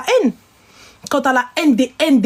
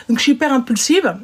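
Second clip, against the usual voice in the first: slushy s through new braces; lisping around dental braces; 2 semitones higher than usual. Real, not acted. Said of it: "j'ai les gouttières". (zézaiement à cause des bagues)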